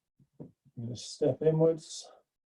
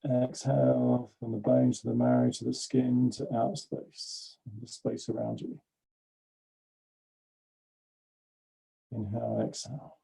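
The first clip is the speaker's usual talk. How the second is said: exhales softer, trailing into breath; fading breath cues; 6 dB quieter than usual. Acted. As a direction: let each exhale drop almost to a whisper.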